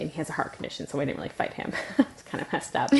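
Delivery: guilty whispered aside; sheepish half-whisper. Real, not acted. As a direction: drop to a hushed, voiceless aside. Awkward confession about sick brother.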